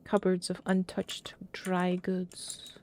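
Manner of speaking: slow whispered reading. Real, not acted. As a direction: whisper it, slowly. Reading in a creepy house.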